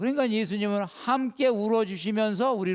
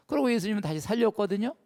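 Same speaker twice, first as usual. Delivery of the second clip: ordinary talk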